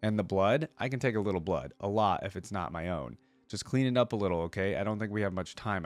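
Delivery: steady storybook reading voice; story narration. Acted. Reading Akali's lore to viewers in a story narration voice. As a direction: read the lore like an audiobook narrator.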